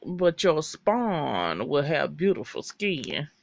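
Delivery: drawn-out sly insult; lightly voiced slow southern shade. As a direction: purr it slowly as a backhanded compliment. Constance's slow racist shade.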